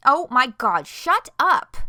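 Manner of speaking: loud exasperated yell; shouting. Acted. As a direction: yell at them to stop. Shouted outburst in argument.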